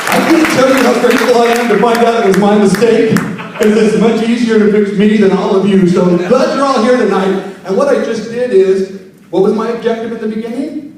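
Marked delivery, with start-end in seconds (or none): 0.1-7.4 louder MC welcome; bigger announcement. Shown as a demonstration. Emcee retrying the reception welcome, louder. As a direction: sell the welcome to the crowd. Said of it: "continues MC delivery".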